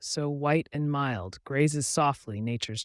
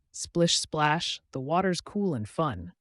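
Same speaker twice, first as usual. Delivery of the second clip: lightly playful duckling, a bit higher; playful exclaim; 4 semitones higher, 3 dB louder than usual. Acted. Duckling playing in the water, mildly playful. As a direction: splash the words out playfully. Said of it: "The duckling exclaimed playfully".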